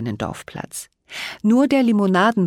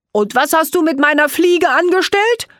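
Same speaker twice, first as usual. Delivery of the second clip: higher, louder gingerbread voice, huffy; indignant snort; 11 semitones higher, 6 dB louder than usual. A narrator's reading. The gingerbread man snorts at the fairy about his bow tie. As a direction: demand it back in a huff. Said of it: "schnaubte Knöpfle".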